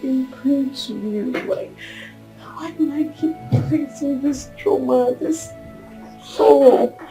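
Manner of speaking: soft, spent pleading; weary despair. Acted. Woman asking God why she failed again, weary despair. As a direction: plead quietly, worn out with grief.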